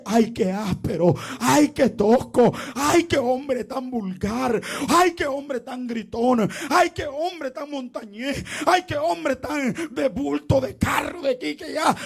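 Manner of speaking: lightly mock the offended listener; mocking complaining churchgoer. Congregation complaining about the preacher, mild whiny mockery.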